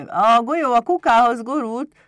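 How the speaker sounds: high, loud excited imp; slightly muddled kobold. A narrator's reading. Pumukli reports to the master, high flustered kobold voice. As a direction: blurt it out high, a bit confused. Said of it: "mondta a kobold kissé zavarosan".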